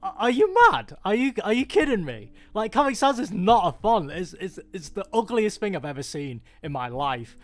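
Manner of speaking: are you kidding me disbelief; incredulous. Retold or imitated. Designer scoffing at Comic Sans fans, incredulous. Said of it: "I'm like".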